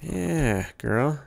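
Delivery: lilting, coaxing sweet talk. Real, not acted. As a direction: coax a nervous horse gently. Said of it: "Gotta just sweet talk her".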